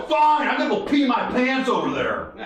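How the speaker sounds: high-pitched mock indignation; petulant retort. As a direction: act out a drunk's defiant comeback. Drunk man's defiant retort to officers.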